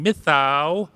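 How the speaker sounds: mild cat-like mithau, mithau; lightly voiced cat; cat meow pun. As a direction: purr the th-meow like a petted cat. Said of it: "it was going".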